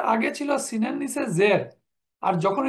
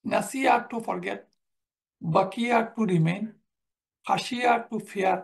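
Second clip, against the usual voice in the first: slow vocabulary drill; slower than usual. Shown as a demonstration. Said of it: "এখন এই গ্রুপে কোনগুলো?".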